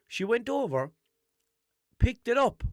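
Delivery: rising high and loud with outrage; exasperated rant. Real, not acted. Ranting to listeners about the post office clerk, loud. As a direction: get worked up and loud.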